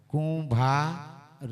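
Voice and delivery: very slow, stretching કુંભાર; drawn out slowly. Shown as a demonstration. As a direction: let કુંભાર linger slowly. (કુંભાર શબ્દ ખૂબ ધીમેથી, ખેંચીને)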